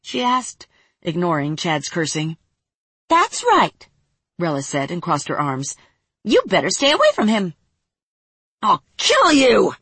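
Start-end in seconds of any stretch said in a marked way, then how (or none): 3.1-7.6 sassy fairy. Acted. Fairy Rella defiant. 8.6-9.8 slow, loud furious yell. Acted. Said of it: "Chad yelled".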